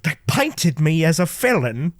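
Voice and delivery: lightly imitated English accent, drawn out; slow English accent impression; Gary Oldman. Actor complaining of how he was painted, in a mild English accent. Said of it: "Gary Oldman just be like".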